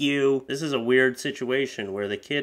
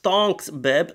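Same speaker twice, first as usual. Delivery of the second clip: higher, slow put-on voice; hammed-up ditzy coo; ditzy poster; 5 semitones higher, 5 dB louder, slower than usual. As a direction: coo it like a vain influencer. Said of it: "reading the post".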